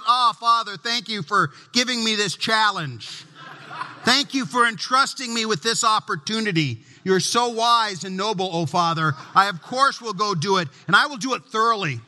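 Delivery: hammed-up fawning devotion; mock gushing son. Imagined perfect son flattering his father, mock gushing. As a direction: lay the flattery on thick. Ideal son's gushing speech.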